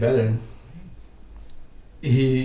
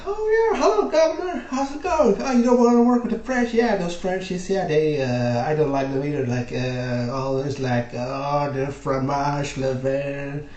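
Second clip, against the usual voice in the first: very high, chummy voice that settles down as it goes; mock English host; 4 semitones higher than usual. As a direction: play a jolly Englishman, squeaky and fast, then easing off. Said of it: "The English were like".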